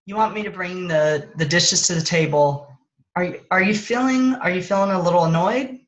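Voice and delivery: gentle question about his feelings; gentle check-in. Shown as a demonstration. Wife gently asking husband if he feels annoyed. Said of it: "so I might have said".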